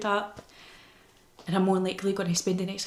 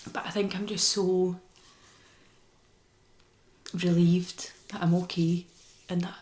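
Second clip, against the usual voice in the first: tearful whisper. Real, not acted. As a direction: breathe it out, barely holding on. Tearful relief after hospital news.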